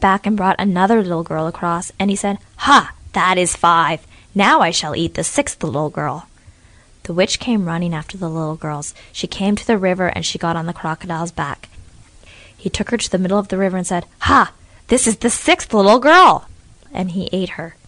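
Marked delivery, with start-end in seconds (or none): 2.7-6.3 slow, louder crocodile count; gloating crocodile. Acted. Crocodile counting the girls across, slow gloat. 14.3-16.5 higher, louder, slow crocodile voice; spring the trap with glee; triumphant crocodile. Acted. Crocodile to the witch midstream, slow triumphant gloat.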